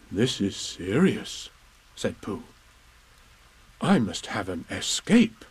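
slow, solemn bear; grave slow teddy bear; slow Pooh voice. Acted. Pooh speaking in story.

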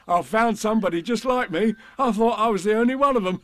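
high, excited tiger voice with chuckles; Tigger. A narrator's reading. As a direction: marvel high and bouncy, laughing at the end. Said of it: "said Tigger".

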